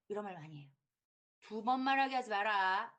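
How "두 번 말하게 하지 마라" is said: louder, commanding tone; bossy parent. Retold or imitated. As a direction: lay down the law. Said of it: "이런 얘기". (힘 있는 학부모가 명령하듯 크게)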